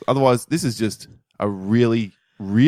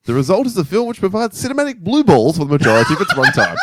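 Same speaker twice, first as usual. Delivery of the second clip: reading aloud; 6 semitones higher, 5 dB louder than usual. Shown as a demonstration. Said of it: "here's a line from my review".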